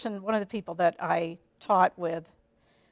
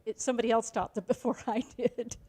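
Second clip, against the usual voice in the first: nervous laugh; 3 semitones higher than usual. Real, not acted. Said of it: "that's a nervous laugh".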